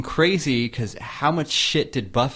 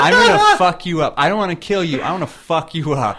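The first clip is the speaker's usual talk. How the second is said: much higher, louder laughing threat of revenge; mock gleeful threat; 4 semitones higher, 6 dB louder than usual. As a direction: spit the threat out with a grin, then settle. Voicing Giles's gleeful revenge.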